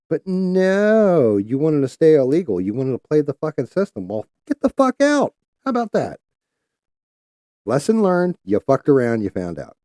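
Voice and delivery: high-pitched, heated outburst; angry rant. Real, not acted. Ranting at illegal caller.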